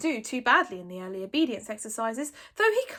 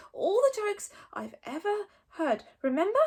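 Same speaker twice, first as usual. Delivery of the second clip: stuttering dragon; 10 semitones higher, 4 dB louder than usual. A narrator's reading. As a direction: squeak out the demand. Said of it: "said Toothless".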